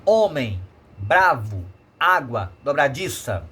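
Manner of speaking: Homem, bravo, água, dobradiça, each with a loud next-to-last syllable and a falling end; penultimate syllable stressed. Shown as a demonstration. Teacher showing the tonic syllable, stressing the penultimate in Homem, bravo, água, dobradiça. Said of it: "sua sílaba tônica será sempre a penúltima".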